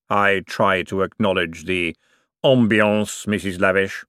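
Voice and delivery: slow, grave voice of Death. Acted. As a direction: let every word fall slowly and solemnly. Death answers Topsy.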